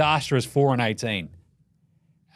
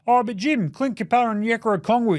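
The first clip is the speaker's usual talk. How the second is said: fan que objeta; 6 semitones higher, faster than usual. Acted. Objecting imaginary fan.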